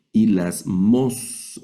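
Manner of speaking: "y las mos" slowly, syllable by syllable; Greek word sounded out. Shown as a demonstration. Teacher reading a Greek word to students, slow syllable-by-syllable pronunciation. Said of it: "Aquí vamos a leer".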